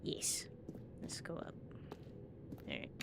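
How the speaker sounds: hushed whisper. Real, not acted. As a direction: whisper it like sneaking past. Sneaking quietly, whispering.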